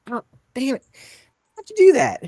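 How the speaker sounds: put-on very high, loud, yelping boy; squeaky yelp. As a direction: yelp after being flicked. Boy flicked on head.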